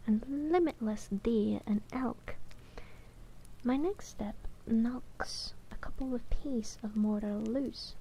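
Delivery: measured audiobook-style reading; narrating a novel in first person; story narration. A narrator's reading. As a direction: read the fantasy tale aloud, evenly paced. Reads the novel aloud.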